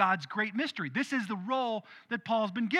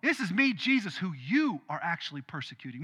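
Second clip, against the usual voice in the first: great voice; 5 dB louder than usual. Acted. Jesus confronting Paul on the road, a lightly voiced great voice. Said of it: "in this great voice".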